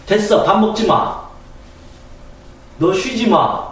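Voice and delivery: put-on mother refusing the child's rest; strict mother. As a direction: scold the child like a demanding mother. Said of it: "엄마가".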